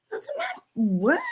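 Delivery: whispered disbelief, rising on my; shocked whisper. Retold or imitated. Spotting her stacked teeth on video, whispered disbelief. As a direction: breathe it out in shock. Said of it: "I'm like".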